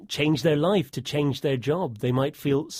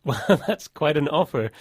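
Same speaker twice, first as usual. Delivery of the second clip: laughing; 3 dB louder than usual. Real, not acted. Laughs at a long-play offer.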